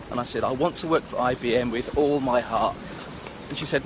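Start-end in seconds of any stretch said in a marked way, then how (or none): 0.4-2.7 lightly acted, low and earnest repetition; downcast pupil. Pupil repeating his dream to Miss, low and heartfelt. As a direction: repeat it as a subdued, heartfelt schoolboy.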